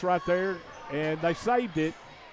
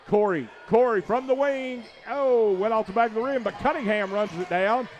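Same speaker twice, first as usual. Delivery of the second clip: excited; 5 semitones higher than usual. Real, not acted. Shot off the rim call.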